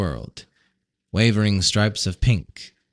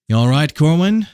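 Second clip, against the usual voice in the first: higher, louder concerned question; Random concerned; 6 semitones higher, 6 dB louder than usual. A narrator's reading. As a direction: check on a friend. Random voiced in dialogue.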